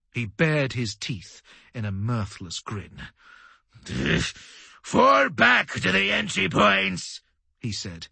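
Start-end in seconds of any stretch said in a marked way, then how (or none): 4.8-7.2 high, slow, strained battle order; commanding call. A narrator's reading. Officer ordering survivors to fall back, commanding call. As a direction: call out the retreat, drawn out.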